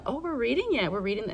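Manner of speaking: imitating excited pupils, pitch jumping up then settling; retold excitement. Teacher quoting pupils thrilled to be reading, mildly excited. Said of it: "they were very excited".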